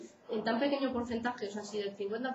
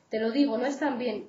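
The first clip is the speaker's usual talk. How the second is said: louder angry insistence; shouting; 5 dB louder than usual. Acted. Stephen yells at Patrick that the carrots are wrong, louder shout. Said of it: "Stephen responde gritándome".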